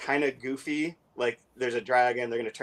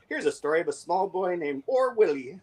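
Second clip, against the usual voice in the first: put-on a light Scottish accent, a little higher; Scottish dialect; 5 semitones higher than usual. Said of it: "in Scottish dialect".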